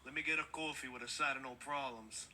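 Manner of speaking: a hint of a De Niro New Yorker; lightly voiced New York tough guy; New York accent. Shown as a demonstration. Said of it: "you think you're Robert De Niro".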